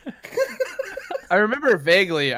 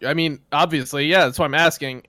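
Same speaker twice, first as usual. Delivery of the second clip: sarcastic; 3 semitones lower than usual. Shown as a demonstration. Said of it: "I didn't say it like that".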